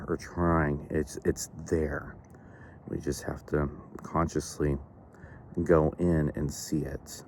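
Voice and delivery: unhurried visualization with long pauses; measured meditation leader, leaving space between thoughts; guided meditation. Real, not acted. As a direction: guide listeners gently inward, phrase by phrase.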